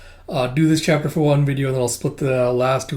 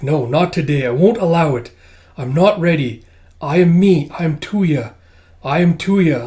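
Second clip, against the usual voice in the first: firmly protesting, raised voice; acted defiance; 3 semitones higher, 5 dB louder than usual. Tuya refusing the dream takeover, mildly defiant. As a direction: insist on your own identity.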